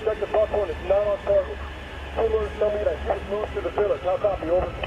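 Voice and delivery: crackly military radio. Real, not acted. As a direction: report in through radio static. Team leader reporting by radio.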